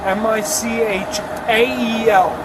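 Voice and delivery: slow spelling. Shown as a demonstration. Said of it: "it's pronounced".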